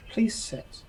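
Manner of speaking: commanding whisper, please sit. Acted. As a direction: hush the room with a whisper. Host drops persona, commands the table.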